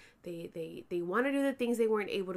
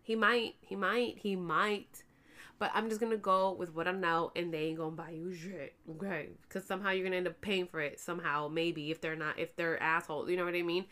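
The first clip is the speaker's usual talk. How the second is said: sassy lecture. Retold or imitated. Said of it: "I was like".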